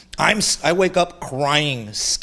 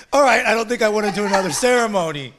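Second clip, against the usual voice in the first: mock backing out; 5 semitones higher, faster than usual. Quitters backing out, laughing.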